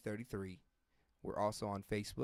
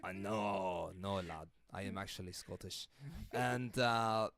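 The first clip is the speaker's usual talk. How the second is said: put-on gruff Scottish lad accent; 2 semitones lower, slower than usual. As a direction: keep the rough Scottish accent going. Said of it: "I'm gonna go Scottish on this one".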